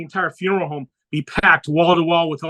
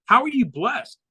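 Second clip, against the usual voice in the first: higher, disbelieving "How are you blessed?"; incredulous question; 6 semitones higher than usual. Retold or imitated. Doctor repeats question, incredulous.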